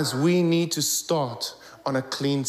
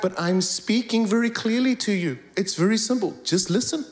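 higher, insistent protest; mild mock exasperation; 5 semitones higher than usual. Insisting to a listener he speaks clearly, mock exasperated. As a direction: spell it out to someone who won't get it. Retells pleading to be understood.

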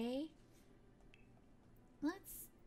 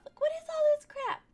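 exasperated; 13 semitones higher, 12 dB louder than usual. Real, not acted. Exasperated at jumbled inventory.

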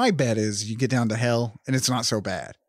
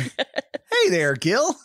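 chirpy customer service Satan, higher; friendly phone operator; 4 semitones higher, much slower than usual. Retold or imitated. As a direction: greet him like a cheerful call center agent. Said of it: "Satan sounds like a fucking A T and T operator".

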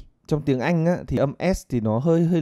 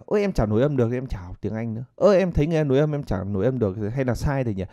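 anxious learner. Retold or imitated. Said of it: "Cứ nghĩ linh ta linh tinh".

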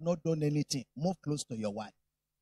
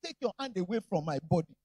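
mock sulky wife; 3 semitones higher than usual. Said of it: "She said".

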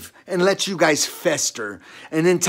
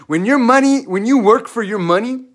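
raised higher and louder, furious; yelling at the church about its money; angry outburst; 6 semitones higher, 4 dB louder than usual. Real, not acted. Ranting at the church crowd, fired up and loud.

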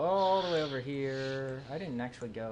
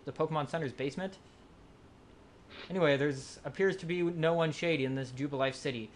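slightly theatrical inspector questioning; detective voice; 3 semitones higher than usual. Acted. Reads detective NPC dialogue.

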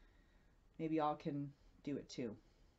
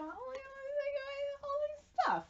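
excited. Real, not acted. Unboxing a pile of gifts.

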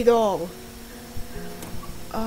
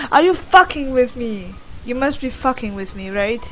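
exasperated; 7 dB louder than usual. Real, not acted. Exasperated at puzzle answer.

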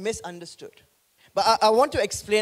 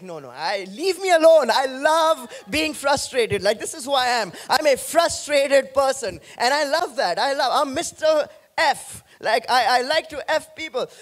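hammed-up higher, louder whine of a grumpy churchgoer; mock frustrated excuse; 3 semitones higher, 3 dB louder than usual. Preacher imitating congregation's excuses, mock whiny and loud. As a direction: play the self-pitying listener who loves being frustrated, half-joking.

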